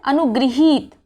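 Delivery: अनुगृहीत sounded out with "gri"; careful "anu-gri-heet" for अनुगृहीत; correct pronunciation. Shown as a demonstration. Teacher reading the right form back, careful sounding-out. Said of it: "सही क्या है".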